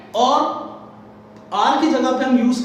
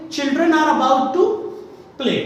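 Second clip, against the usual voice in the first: slow model sentence; 4 semitones higher, much slower than usual. Shown as a demonstration. Teacher dictating the example slowly to the class. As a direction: dictate each word slowly. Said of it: "तो हम लोग क्या बोलेंगे?".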